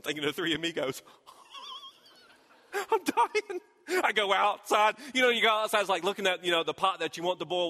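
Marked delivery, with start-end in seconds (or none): 2.7-3.6 a louder, higher hammed-up wail; mock dramatic dying. Pastor repeating his dying line as a loud mock lament. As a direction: overplay being parched.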